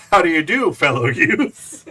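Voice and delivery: joking greeting to classmates, hammed-up; mock fellow-kids greeting. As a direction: play the awkward grown-up posing as a teen. Greeting peers in a silly voice.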